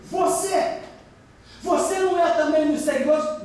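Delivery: loud, high-pitched acted challenge; soldiers' accusation. Soldiers challenging Peter as they pass, acted accusation. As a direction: call him out sharply, high and loud.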